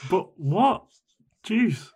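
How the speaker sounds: high, loud baffled questions; baffled disbelief. Acted. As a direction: question it as if appalled. Listener still outraged by juice.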